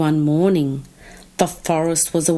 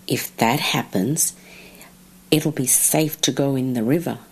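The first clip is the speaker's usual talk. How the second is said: lightly voiced pig, a little lower; a hint of a low grunt; grunting wild pig; 4 semitones lower than usual. Wild pig talking to the other animals, mildly grunted. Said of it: "grunted a wild pig".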